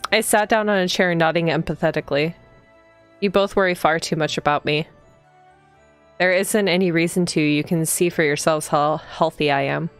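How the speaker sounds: even, slightly low storytelling read; read-aloud narration. A narrator's reading. Player reading the heroine's morning greeting aloud, even narration. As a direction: read the game text evenly, unhurried. Reads the game's text aloud.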